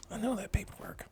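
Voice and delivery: high-pitched reenacted realization; retold dawning recognition. Acted dawning recognition of his package.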